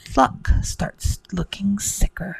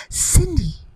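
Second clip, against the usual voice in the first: high, falling sing-out of a name; high-pitched magical summons; fairy's cry; 8 semitones higher than usual. Acted. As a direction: call out high like a storybook fairy. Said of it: "she cried".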